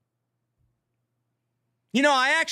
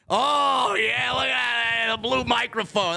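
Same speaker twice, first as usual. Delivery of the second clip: triumphant shout; 5 dB louder, slower than usual. Real, not acted. Showing off new microphone.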